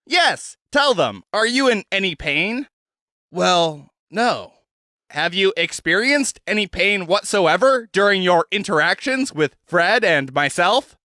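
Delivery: a hint of a cheerful showman; Zed's voice. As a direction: coax the prisoner along brightly. Zed questions the head.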